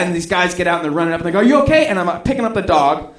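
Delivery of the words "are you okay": high-pitched concerned call; imitated passer-by checking in. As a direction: call it out while running up. Men running up call out.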